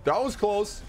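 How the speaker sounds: high-pitched, giddy relief. Real, not acted. Gamer after a narrow escape, high giddy relief. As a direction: squeak it out between laughs.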